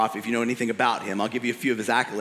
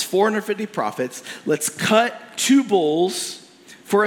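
raised, louder, bold prophet throwing down a challenge; a defiant prophet calling out the king; Elijah's challenge; 5 semitones higher, 3 dB louder than usual. Retold or imitated. Preacher voices Elijah challenging Ahab.

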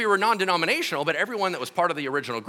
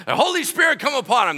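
louder, higher preacher-style call; prayer leader calling out; 8 semitones higher, 6 dB louder than usual. Retold or imitated. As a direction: call down the Spirit over him. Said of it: "They're like".

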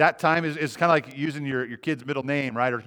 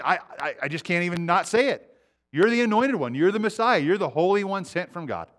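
demon blurting out; 4 semitones higher than usual. Acted. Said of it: "he's saying".

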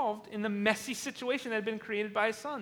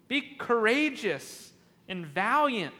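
slow evil command; 4 dB louder, slower than usual. Retold or imitated. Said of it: "Do you hear how evil this is?".

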